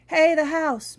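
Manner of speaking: loud, high shout across the yard. Acted. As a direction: call out loudly. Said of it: "Maggie shouted".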